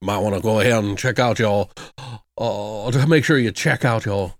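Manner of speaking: mock Southern drawl. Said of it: "It's horrible accent".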